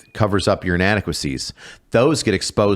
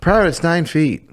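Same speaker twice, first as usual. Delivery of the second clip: sergeant retort; 9 semitones higher than usual. Retold or imitated. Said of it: "S1 joining the retelling as the sergeant".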